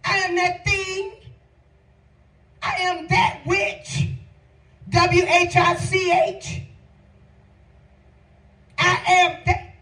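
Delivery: driving sermon cadence, phrase after phrase; impassioned preaching. Real, not acted. Preacher declaring "I am that" to congregation, impassioned.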